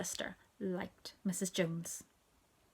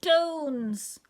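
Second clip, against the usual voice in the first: put-on high, loud toddler shout; baby proudly shouting a mangled name; 7 semitones higher, 7 dB louder than usual. A narrator's reading. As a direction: blurt it out high, falling away. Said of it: "She said it very loudly".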